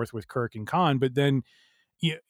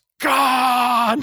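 high, shrill, stretched-out, drawn-out yell; 12 semitones higher, 8 dB louder than usual. Recalling a film moment: William Shatner yelling Khan. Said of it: "Especially when he yells".

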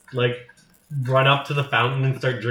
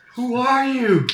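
very high, shocked scream; 10 semitones higher, 3 dB louder than usual. Voicing churchgoers who see someone walk on water: screaming bystander. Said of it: "just screams".

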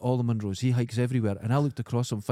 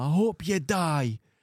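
mock very slow shout, each word dragged out; 5 semitones higher than usual. Telling how a man suddenly got up and shouted at a group, retelling a shout. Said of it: "Jeff got up and just shouted at them".

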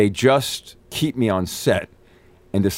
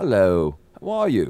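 slow, put-on English accent. Describing a British man coming into the trailer, doing his English accent. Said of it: "That's how he talks".

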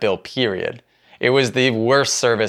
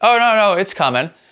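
breezy, offhand, nonchalant tone, pitched up; 9 semitones higher than usual. Retelling how the waitress answered about a late drink: imitating a nonchalant waitress. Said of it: "she nonchalantly goes".

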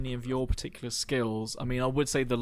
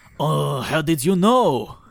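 very loud, terrible put-on French accent; 3 semitones higher, 11 dB louder than usual. Restaurant waiter, a failed actor, replying to a customer in a terrible French accent. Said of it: "it's a terrible French accent".

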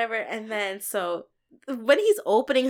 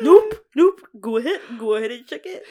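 put-on Canadian accent; 7 dB louder than usual. Repeating a man's words from the story, in a Canadian accent. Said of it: "did you give yourself a Canadian accent?".

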